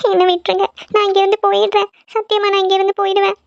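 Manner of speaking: put-on girl pleading in her sleep; fearful pleading. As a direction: promise to leave, desperately scared.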